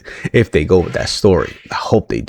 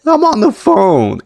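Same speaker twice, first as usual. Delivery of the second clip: mock Bayley snap; 13 semitones higher, slower than usual. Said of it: "She goes".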